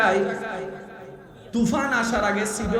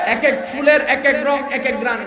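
louder, slower; 4 dB louder than usual. Shown as a demonstration. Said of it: "আরো জোরে বলেন না".

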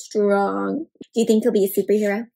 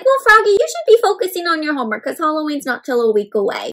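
high, quick motherly reminder; lightly voiced mom nudging her child; mother chiding; 4 semitones higher, faster than usual. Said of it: "So Mom's like".

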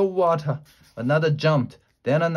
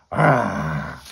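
drawn-out "ah" roar; a storyteller's moderate monster yell; monster shout; 7 semitones lower, 3 dB louder than usual. A narrator's reading. Children rushing at the hyena, shouting like monsters. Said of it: "they shouted".

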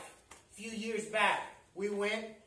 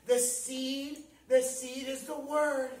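"The seed" set apart, then "the seed is the word" in full; emphatic repeat; slower than usual. Real, not acted. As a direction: repeat "the seed" for emphasis, pausing after the first. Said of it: "I wanna emphasize that".

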